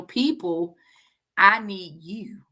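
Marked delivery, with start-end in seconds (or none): 1.4-2.4 slow, sincere plea; slow heartfelt appeal for support; pleading. Real, not acted. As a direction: ask them earnestly, drawn out. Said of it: "I'm pleading".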